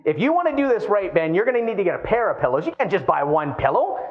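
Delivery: a hint of insistent inner voice; bossy inner brain. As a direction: lightly play the brain laying down the rule. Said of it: "The brain kicks in, goes".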